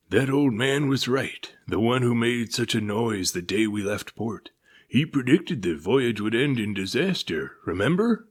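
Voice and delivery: high, loud anxious crewman voice; worried sailor. A narrator's reading. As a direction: urge them to remember. Crewman recalls prophecy.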